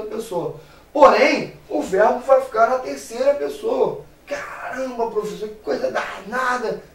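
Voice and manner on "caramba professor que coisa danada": mock student. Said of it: "student voice acted by teacher".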